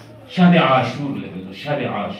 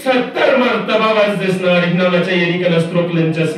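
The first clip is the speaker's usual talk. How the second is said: impassioned pledge; 6 semitones higher, 4 dB louder than usual. Acted. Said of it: "مسلم ابن عو سجد اصحاب کنی بریان".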